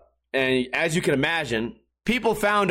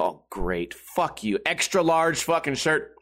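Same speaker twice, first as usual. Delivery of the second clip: deadpan grumble at the gift; sarcastic; slower than usual. Retold or imitated. Friends hand him an extra large shirt, sarcastic. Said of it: "I go".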